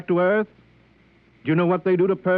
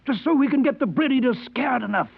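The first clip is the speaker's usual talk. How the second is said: higher, urgent, pressing; eager pitch; 6 semitones higher than usual. Acted. Costello urging the purser to see his plan, excited. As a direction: sell the scheme with rising zeal.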